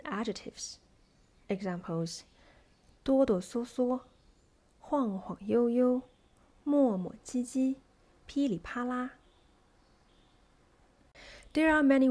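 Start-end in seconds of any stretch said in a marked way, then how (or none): 3.0-9.1 strong first syllable, light second, as in 哆哆嗦嗦; first stressed, second neutral. Shown as a demonstration. Teacher gives adjective examples, first syllable stressed, second neutral. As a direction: hit the first syllable of 磨磨唧唧 and make the second light and toneless. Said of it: "second syllable and stress on the first".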